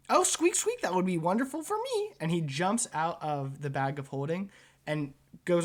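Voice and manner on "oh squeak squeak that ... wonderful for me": high, thrilled squeaky rat voice; delighted rat squeak. Acted. Rat inventor thanking the director, high delighted squeaks.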